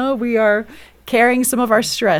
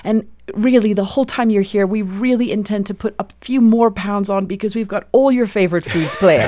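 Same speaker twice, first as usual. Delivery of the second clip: put-on South African British accent. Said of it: "in his beautiful South African British accent".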